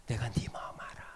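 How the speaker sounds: low, whispered comfort; tender whisper. Acted. God whispering comfort to a struggling sinner. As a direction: whisper it like a loving father.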